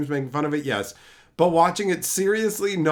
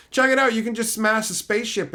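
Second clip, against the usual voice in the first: mock excited pitch; 6 semitones higher than usual. Mock announcement, higher.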